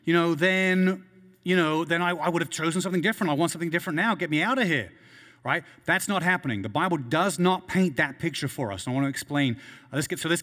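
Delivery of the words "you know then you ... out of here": mildly raised, pleading imitation; a touch of desperate protest, voice lifted; mock crying out. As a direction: lightly act out a plea from torment. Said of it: "are crying out".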